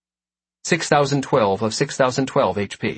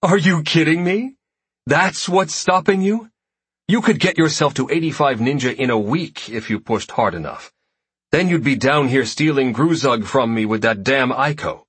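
laughing; 4 semitones higher than usual. Acted. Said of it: "bursts out laughing in her great big goddess voice".

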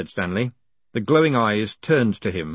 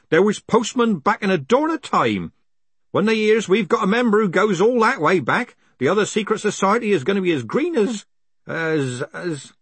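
put-on much higher, boastful old postman; proud old man voice; 9 semitones higher than usual. Tropes voiced high, proud.

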